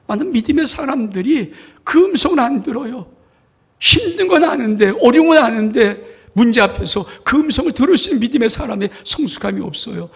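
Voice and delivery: loud, high, fervent preaching; full-force preaching. Acted. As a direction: preach it out with all your force. (힘차게 외치는 설교)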